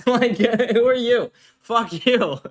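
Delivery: laughing retort. Real, not acted. Laughing at chat harasser.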